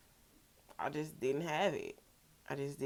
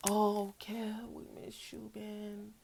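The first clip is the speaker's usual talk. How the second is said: mock graveside address; 5 semitones higher, 4 dB quieter, much slower than usual. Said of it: "we came here to say".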